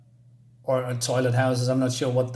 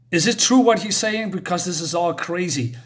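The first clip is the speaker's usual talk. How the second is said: higher, louder disbelieving question; mock upset kid demanding the truth; upset, retold; 5 semitones higher, 4 dB louder than usual. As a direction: retell a bewildered kid's protest. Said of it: "very upset".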